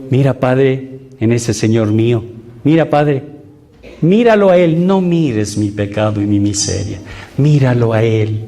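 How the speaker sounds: retold prayer. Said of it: "¿Saben qué yo hago?".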